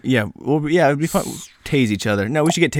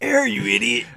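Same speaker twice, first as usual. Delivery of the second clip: high hammed-up exasperated cry; higher, exasperated jab; mock exasperation; 10 semitones higher than usual.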